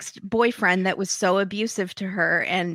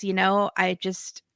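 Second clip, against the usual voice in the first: understated, unruffled retelling of his words; calm. Retold or imitated. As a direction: imitate him talking calmly, evenly. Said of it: "he's talking very calmly".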